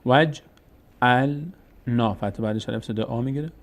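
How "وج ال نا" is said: three separated syllables in وج ال نا; teacher's careful piece-by-piece وج ال نا; silent connecting alef. Shown as a demonstration. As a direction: sound out وج ال نا as "waj... 'al... na". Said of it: "الف وصل خوانده نمیشه".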